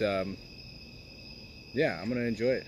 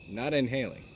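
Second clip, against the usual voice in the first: cigar in mouth. Real, not acted. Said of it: "put the cigar in my mouth".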